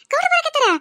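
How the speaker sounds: surprised. Acted. Neighbour hears husband is coming.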